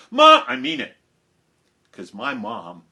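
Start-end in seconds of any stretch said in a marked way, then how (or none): 0.1-1.0 put-on very high childish complaint, loud at first; whiny protest. Child sent out to school protests to Mom, whiny. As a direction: protest shrilly to Mom, then insist.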